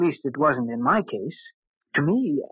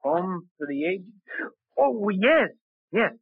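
hiding shock; 6 semitones higher, slower than usual. Acted. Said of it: "I fought to keep my face expressionless".

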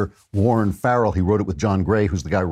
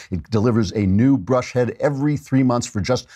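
normal talking voice

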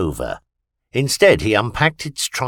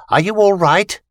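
high, louder worried question; anxious alien; 10 semitones higher, 5 dB louder than usual. A narrator's reading. Alien Vita pinned under Christopher, high anxious question. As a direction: press him urgently for an answer.

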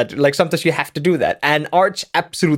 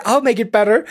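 more desperate plea; 6 semitones higher, faster than usual. Retold or imitated.

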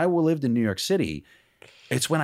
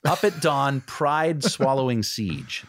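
savoring phrase; 3 semitones higher, much slower than usual. Shown as a demonstration.

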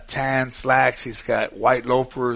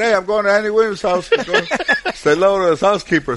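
excited; 8 semitones higher, 5 dB louder than usual. Retold or imitated. Retelling his own excited reply.

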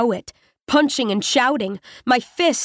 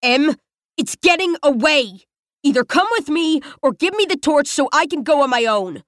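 raging; 3 semitones higher than usual. Acted. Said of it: "a mask of insatiable rage".

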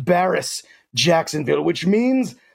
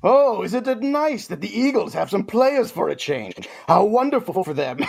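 sarcastic; 4 semitones higher than usual. Acted. Mocking the Eagles' injuries.

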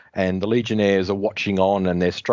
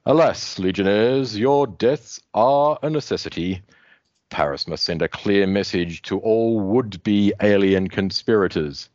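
Grimbor monologuing. Acted. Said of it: "he keeps monologuing".

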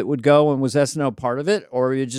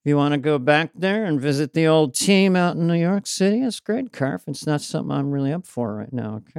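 soft-spoken comic impression, trailing softer; Dennis Miller. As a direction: lightly imitate a mellowed satirist. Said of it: "Dennis now is sort of soft-spoken".

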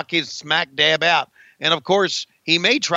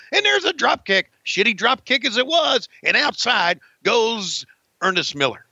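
higher-pitched, punchy ringside call; live wrestling play-by-play; 5 semitones higher than usual. Pretend. Commentator calling a match for Conrad, live play-by-play. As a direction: call the blows as they land.

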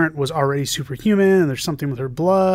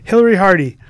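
loud name callout; 4 semitones higher, 9 dB louder than usual. Real, not acted. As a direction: announce the name loudly, falling. Loud name callout reading mail.

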